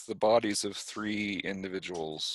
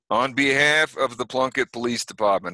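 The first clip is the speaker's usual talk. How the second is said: put-on New York accent; 4 semitones higher, 4 dB louder than usual. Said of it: "suddenly speaking in a New York accent".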